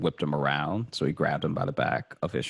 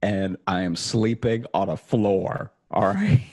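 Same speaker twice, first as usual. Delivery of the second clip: laughing plea; 3 semitones higher than usual. Retold or imitated. Begging the bank while laughing.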